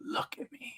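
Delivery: unvoiced hushed whisper.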